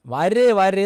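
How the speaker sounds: loud call to someone outside the room. Retold or imitated. The priest inside the temple calls the attendant, loud call. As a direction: shout the name to summon help. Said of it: "എന്ന് വിളിച്ചു".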